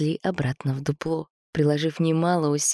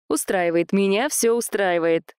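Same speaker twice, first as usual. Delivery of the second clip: parrot voice; 4 semitones higher than usual. Acted. Parrot character speaks.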